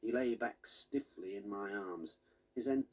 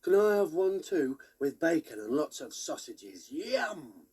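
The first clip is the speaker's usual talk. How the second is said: put-on eager boy voice; 5 semitones higher, 6 dB louder than usual. A narrator's reading. Biscuits asks eagerly for breakfast.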